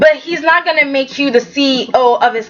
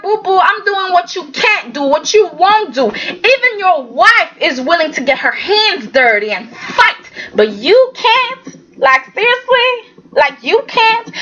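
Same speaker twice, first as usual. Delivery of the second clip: higher, building mock taunt; Billy taunting Jack, hammed-up and high; 6 semitones higher than usual. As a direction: goad him, rising and scornful. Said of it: "And Billy was like".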